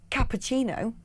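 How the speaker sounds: "cappuccino" with a hard k at the start; hard initial C. Shown as a demonstration. Presenter explaining Scouse, hard C opening "cappuccino". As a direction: hit the first C of "cappuccino" as a crisp k. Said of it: "start of a word is a hard C".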